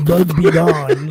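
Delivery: slow, announcer-style spray slogan; mock bug spray ad. Spraying weirdos away in a mock ad voice. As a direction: ham it up like a Raid commercial. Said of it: "I spray them with Raid".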